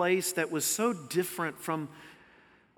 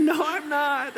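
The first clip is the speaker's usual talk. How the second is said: raised, high comeback; retold defiant retort; 9 semitones higher, 5 dB louder, slower than usual. Driver retelling his answer to the preacher, raised retort. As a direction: replay the comeback high and loud. Recap of retold shouting match.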